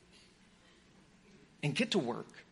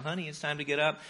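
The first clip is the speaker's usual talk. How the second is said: lightly sing-song wake-up call, softer; a hint of coaxing someone gently awake; sweet sing-songy; 5 dB quieter than usual. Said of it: "sing-songy kind of voice".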